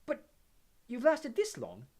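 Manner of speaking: put-on slow, hesitant young girl voice; unsure, gently probing schoolgirl; tentative Hermione. A narrator's reading. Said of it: "said Hermione tentatively".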